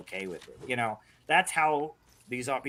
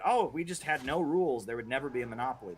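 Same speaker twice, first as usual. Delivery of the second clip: mocking libertarian quote; 2 semitones higher than usual. Streamer mocks libertarians' no-rules claim, lightly sarcastic. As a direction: parrot their claim with a touch of scorn. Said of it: "like, the idea that".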